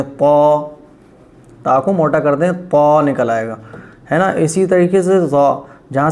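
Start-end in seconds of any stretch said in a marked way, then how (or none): 0.0-0.7 تا said thick, the emphatic ط; heavy ta. Shown as a demonstration. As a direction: make تا heavy. (تا کو موٹا کریں)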